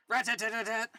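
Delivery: machine-gun noise. Acted. Reader voicing return fire, machine-gun noise.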